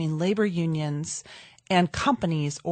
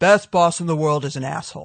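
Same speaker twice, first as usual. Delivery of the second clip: put-on broad New York accent, laid on thick, raised; 7 dB louder than usual. Quoting what a man always said to the speaker, thick New York accent. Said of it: "in his thick New York accent".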